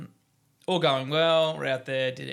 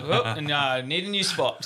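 surprised; 3 semitones higher, 7 dB louder than usual. Retold or imitated. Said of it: "I was like".

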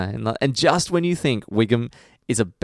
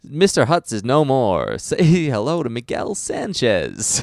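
slow, louder, higher dramatic announcement; mildly hammed-up lawyer unveiling a new name; Hutz's dramatic reveal; 4 semitones higher, 3 dB louder, slower than usual. Retells lawyer's new-identity line.

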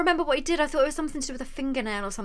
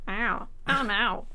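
Tarantino impression; much slower than usual. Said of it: "'cause he talks like this".

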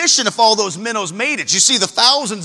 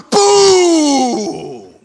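harpoon boom; 5 semitones higher, 6 dB louder than usual. Acted. Harpoon strike acted out.

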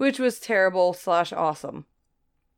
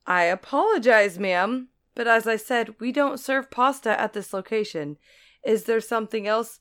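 polite but slightly annoyed. Retold or imitated. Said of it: "my best polite but slightly annoyed voice".

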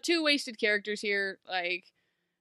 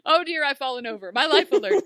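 hammed-up old lady, louder and higher; mock old lady; 4 semitones higher, 8 dB louder than usual. Hammed-up granny who has fallen, calling out. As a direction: play a frail granny calling for help, overdone.

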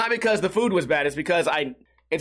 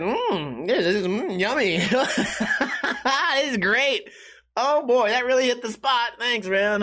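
higher, overplayed yummy praise with a laugh; fake delight; 7 semitones higher than usual. Hiding his disgust from the cook, hammed-up fake enthusiasm. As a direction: gush falsely over food you hate. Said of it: "I just ate it and I said".

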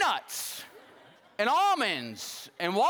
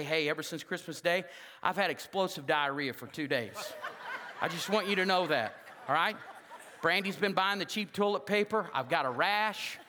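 mock confession call; 2 semitones lower than usual. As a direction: play it as a sheepish caller admitting everything. Imagined call to the pastor.

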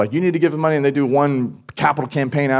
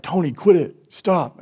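mock annoyed kid; 6 semitones higher, slower than usual. Retold squabble between young brothers.

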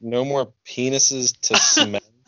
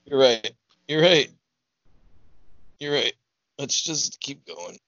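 mock tearful; 5 semitones higher than usual.

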